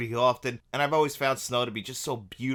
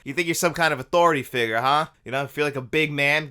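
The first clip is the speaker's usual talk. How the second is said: angry New Yorker; 2 semitones higher, 6 dB louder than usual. Retold or imitated. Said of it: "Like a true New Yorker, he's like".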